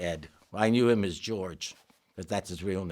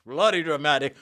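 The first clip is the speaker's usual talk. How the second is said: lower-pitched retelling of the colleague's gripe; a mildly deeper mock complaint; 4 semitones higher, 4 dB louder than usual. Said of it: "they had a deeper voice".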